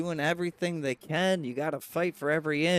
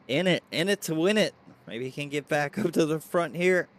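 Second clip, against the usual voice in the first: hiccups; 4 dB louder, faster than usual. Real, not acted. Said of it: "Got the hiccups tonight".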